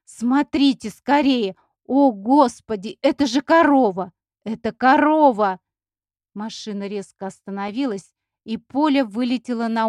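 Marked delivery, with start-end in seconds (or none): 0.1-5.6 excited shouting. A narrator's reading. Polina yelling to friends about a cow, thrilled and loud. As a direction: shout like a city girl seeing her first cow. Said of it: "закричала она".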